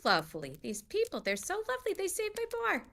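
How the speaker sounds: muttering to herself. Acted. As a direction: mutter fondly under the breath as Dora. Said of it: "cleaning up and sort of muttering".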